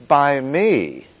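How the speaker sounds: emphatic "me", then a beat; stress on ME. Shown as a demonstration. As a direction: lean firmly on "me". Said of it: "every one of the words we stressed".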